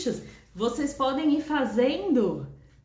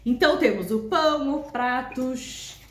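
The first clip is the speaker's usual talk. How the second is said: spoken rhythm with shush. Shown as a demonstration. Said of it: "fazer isso com todas".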